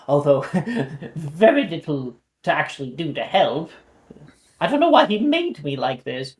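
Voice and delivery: lightly voiced prim old owl; a hint of a haughty old owl; fussy old owl. Owl complains of Merlin.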